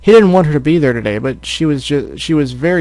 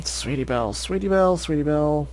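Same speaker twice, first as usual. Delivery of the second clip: squeaky voice practice; 2 semitones higher, 8 dB quieter than usual. Shown as a demonstration. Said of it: "High and squeaky".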